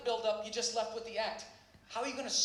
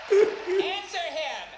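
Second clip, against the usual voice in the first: shouting; 6 semitones higher, 10 dB louder, much slower than usual. Real, not acted. Berating heckler at the taping.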